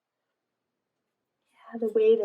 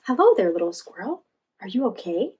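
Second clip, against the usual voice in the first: gentle, louder reassuring call; gently; 5 dB louder than usual. Acted. Joy gently checks on the scared squirrel, reassuring. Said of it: "asked Joy gently".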